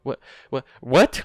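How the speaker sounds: loud, rising shouted "What?"; shouting. A narrator's reading. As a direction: shout it out in disbelief. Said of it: "shouted even louder this time".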